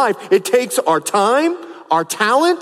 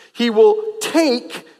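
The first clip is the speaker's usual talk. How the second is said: "take" held out and set apart; stress on take; 3 semitones higher, slower than usual. Real, not acted. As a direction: hit "take" and hold it briefly. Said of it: "I emphasize the word over and over".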